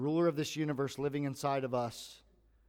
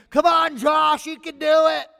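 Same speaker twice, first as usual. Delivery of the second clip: big high shout of encouragement; imitating strangers shouting support; crowd cheering; 12 semitones higher, 13 dB louder than usual. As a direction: yell it from the sideline. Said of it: "yelling my name".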